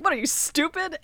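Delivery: a hint of a mobster scoffing; Penguin sneer. Podcaster imitating Penguin mocking detectives, light sneer. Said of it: "the Penguin just corrects their Spanish".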